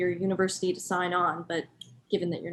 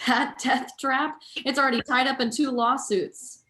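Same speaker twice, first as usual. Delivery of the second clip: scoffing disbelief; 5 semitones higher, 4 dB louder than usual. Acted. Scoffing at old building.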